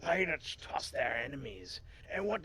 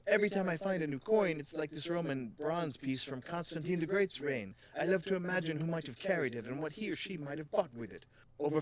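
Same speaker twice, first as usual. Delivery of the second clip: lightly voiced, lilting coin expert; a hint of island accent; accented shopkeeper; 5 semitones higher, 3 dB louder than usual. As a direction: explain it with a put-on lilt. Continues Miss Sadi's accented voice.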